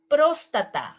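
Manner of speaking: próstata said the Spanish way, rolled r, stress on -tá-; Spanish pronunciation. Shown as a demonstration. Teacher models próstata in Spanish pronunciation. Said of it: "In Spanish, you say".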